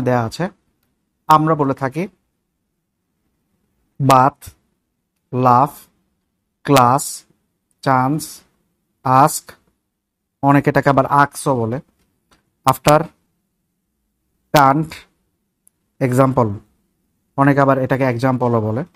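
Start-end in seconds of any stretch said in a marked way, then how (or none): 4.0-9.5 বাথ, লাফ, ক্লাস said with a flat Bangla a; Bangla-style pronunciation. Shown as a demonstration. Teacher reads the common wrong version. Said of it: "পুরোটাই হচ্ছে ভুল উচ্চারণ". 12.6-16.5 বাথ, লাফ, ক্লাস said with a flat Bangla a; Bangla-style pronunciation. Shown as a demonstration. Teacher reads the common wrong version. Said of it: "পুরোটাই হচ্ছে ভুল উচ্চারণ".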